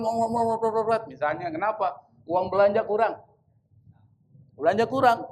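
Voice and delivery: "ngomel-ngomel" stretched out like a wife's grumbling; mock nagging. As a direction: drag out "ngomel-ngomel" as a comic imitation of nagging. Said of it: "Istri ngomel-ngomel".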